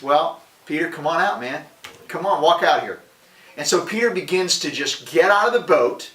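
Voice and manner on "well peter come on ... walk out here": lightly acted casual beckoning; Jesus calling out. Jesus coaxing Peter out of the boat, lightly voiced beckoning. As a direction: urge a friend over, a little louder. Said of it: "And he says".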